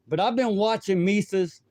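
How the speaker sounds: slurred speech with tobacco dip in; words mushy from a mouth full; slurring. Real, not acted. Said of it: "It sounds like I'm slurring".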